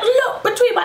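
high loud angry demand through a laugh; half laughing, half furious insisting; getting angry. Retold or imitated. Mother telling the midwife again to look, high angry laughing demand. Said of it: "I'm getting angry now".

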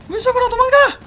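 high panicked yell; panicked shout. Real, not acted. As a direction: shriek to escape. Fleeing into water.

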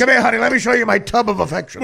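loud hammed-up come-on; mock seducer. Co-host mocks guest's pet-name excuse, loud mock come-on. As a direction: play a pushy, comic seducer.

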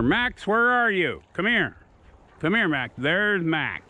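high call across the yard to Max; calling the dog. Real, not acted. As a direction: sing out for the dog to come.

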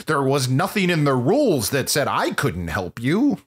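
imitated odd American accent, swooping pitch; weird American accent. Podcaster mocking Simon Pegg's movie character, weird American accent. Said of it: "he did a weird American accent".

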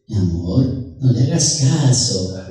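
low, slow reassurance; soothing wife. Acted. Wife telling the paisa to ignore it, soothing. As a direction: comfort him gently, unhurried.

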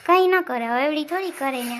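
loud, sharp snap back at his wife; sharp retort. Acted. Husband snapping at wife over the child, loud. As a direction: cut her off loudly.

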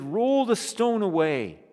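loud, high, forceful command; angry command. Acted. Jesus at the tomb, angrily commanding. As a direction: order it with anger. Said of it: "Jesus was still angry".

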